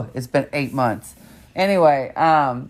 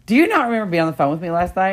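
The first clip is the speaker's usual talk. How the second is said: retold incredulity; 6 semitones higher, 4 dB louder, faster than usual. Retold incredulous question from caller.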